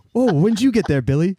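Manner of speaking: startled dad. Acted. Dad startled by the boy behind him, a mock startled cry. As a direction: jump as if caught off guard.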